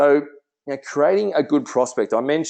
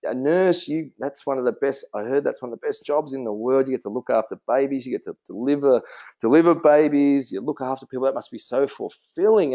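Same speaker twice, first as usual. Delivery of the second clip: enthusiastic praise; 2 semitones higher than usual. Shown as a demonstration. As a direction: gush with delight about nursing. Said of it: "you go".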